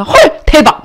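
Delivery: high, gasping mock disbelief; demonstrated shock. Shown as a demonstration. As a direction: model a stunned audience reaction. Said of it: "막 이렇게 치시면 돼요".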